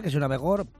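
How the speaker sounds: coughing on coffee, then apologizing; choking on drink, clears throat. Real, not acted. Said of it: "me estoy tomando un café y ... se me ha ido por el otro lado".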